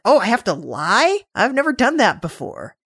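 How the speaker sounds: imitated naive wonder; guileless innocence. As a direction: lightly play an innocent who has never lied. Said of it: "I really loved Elnor's guilelessness here".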